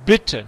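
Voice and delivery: "bitte" with a short i before the double t. Shown as a demonstration. Teacher explains the short vowel, quick "bitte". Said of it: "cuando es corto".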